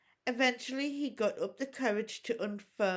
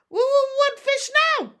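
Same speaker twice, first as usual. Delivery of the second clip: very high, loud, stammering little dragon hiss; hissed dragon demand; 13 dB louder than usual. A narrator's reading. Little dragon hissing at Hiccup for fish. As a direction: hiss it out like a tiny greedy dragon.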